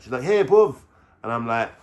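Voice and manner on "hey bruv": high, loud Irish imitation of her; mock Irish girlfriend. Irish girlfriend talking like him, high mock Irish accent. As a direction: mimic her Irish voice borrowing his slang. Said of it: "she's even talking like me".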